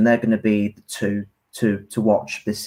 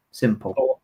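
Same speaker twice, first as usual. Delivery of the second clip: Meerkat impression; 3 semitones lower, 5 dB quieter than usual. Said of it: "was that your Meerkat impression then?".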